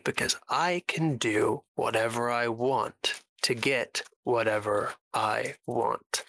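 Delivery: lightly acted, unhurried defiance with spaced words; measured villain.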